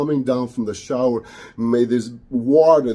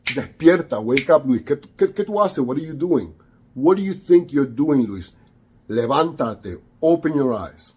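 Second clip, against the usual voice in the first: urgent spirit of light; 2 semitones higher than usual. Retold or imitated. Light spirit rousing Luis from zombie state, urgent. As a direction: shake him awake with your voice. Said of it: "something different came on and said".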